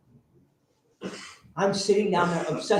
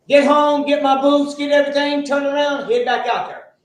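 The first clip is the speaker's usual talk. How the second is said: excited; 7 semitones higher, 7 dB louder than usual. Retold or imitated. Rushing back to the rig.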